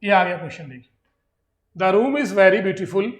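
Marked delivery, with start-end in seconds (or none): 1.8-3.1 very slow, word by word; a teacher's slow board reading; slow reading of example. Shown as a demonstration. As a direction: read the exam line out for the class. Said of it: "reads exam sentence aloud".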